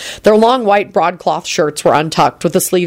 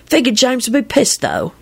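lightly cheery, pitched up then dropping on "though"; breezy afterthought to a friend; mildly amused, cheerful admission; 7 semitones higher than usual. A narrator's reading. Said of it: "Sirius replied cheerily".

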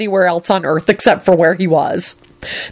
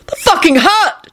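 high, slow outraged cry; outraged scream; 12 semitones higher, slower than usual. A narrator's reading. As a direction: scream it out, stung and furious. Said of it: "screamed in an outraged voice".

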